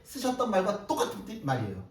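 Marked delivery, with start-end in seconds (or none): none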